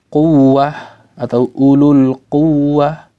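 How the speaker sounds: quwwah with the doubled w pressed. Shown as a demonstration. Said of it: "ditekan sedikit ulul quwwah". (tekanan pada huruf w bertasydid)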